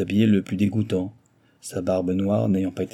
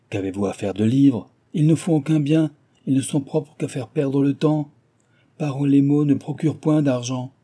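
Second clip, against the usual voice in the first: put-on a touch higher, mildly scornful old guardian; scornful old miser; 5 semitones higher, 4 dB louder than usual. Guardian scorning Cécile's books, lightly scornful. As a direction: scoff at books like a mild skinflint.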